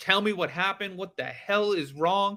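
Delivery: put-on tearful, frantic crying yell. Recounting a woman demanding answers about the children, imitating a crying yell. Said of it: "crying, emotional, yelling".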